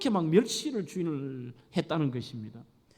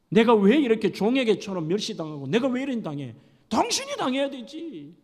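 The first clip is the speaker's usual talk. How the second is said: heated wife's complaint, pitch climbing; angry complaint; 3 semitones higher, 3 dB louder than usual. Acted. Wife heatedly blaming her husband. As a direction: blame him, getting hotter. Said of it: "이렇게 얘기합니다".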